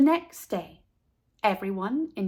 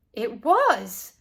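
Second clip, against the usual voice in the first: horror; 3 dB louder than usual. A narrator's reading. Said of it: "asked Natey in horror".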